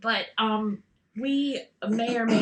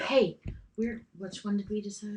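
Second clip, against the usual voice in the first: leaning in to whisper; 6 dB quieter than usual. Pretend.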